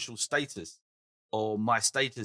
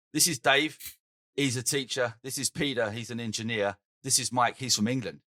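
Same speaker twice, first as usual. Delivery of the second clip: announcing introduction. Retold or imitated. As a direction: introduce him like a host presenting guests. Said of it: "I've actually been introduced as".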